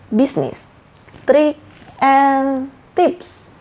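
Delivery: halting, unsure presentation opening; bad opening. Shown as a demonstration. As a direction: stumble through a greeting, pausing between phrases. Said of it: "itu jelek banget openingnya".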